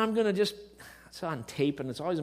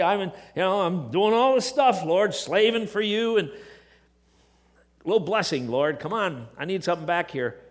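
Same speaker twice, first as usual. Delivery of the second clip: louder self-pitying plea to the Lord; whining pity party; 3 semitones higher, 5 dB louder than usual. Retold or imitated. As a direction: list your good deeds like a sulking servant wanting pay. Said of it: "you get into this little pity party".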